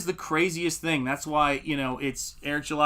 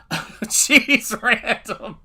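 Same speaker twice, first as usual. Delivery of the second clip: laughing surprise; 8 semitones higher, 6 dB louder, much slower than usual. Real, not acted. Reacting to a harsh chat comment.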